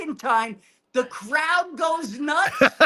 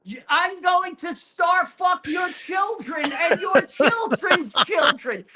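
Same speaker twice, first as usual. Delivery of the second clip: mild mock scream; 4 semitones higher than usual. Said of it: "I start screaming".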